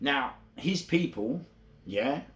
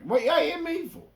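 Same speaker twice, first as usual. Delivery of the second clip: mock outcry; 4 dB louder than usual. Repeated taunt refrain.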